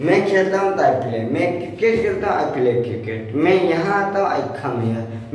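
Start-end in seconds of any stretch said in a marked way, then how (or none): 4.3-5.3 "I come here" said very slowly for learners to copy; teacher modelling a sentence for the class to repeat. Shown as a demonstration. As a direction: model it slowly so they can follow. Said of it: "मेरे साथ आप बोलिए आप लोग".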